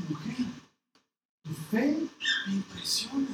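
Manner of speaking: whispered, gentle admiration; soft praise. Retold or imitated. Jesus softly whispering his praise of the woman's faith.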